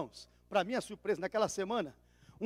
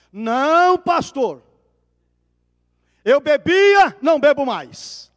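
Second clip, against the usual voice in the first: loud and insistent, pleading with the pastor; loud testimony, pleading to be baptised; 5 semitones higher, 12 dB louder, much slower than usual. Retold or imitated. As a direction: proclaim it so the whole church hears. Convert protests before whole church.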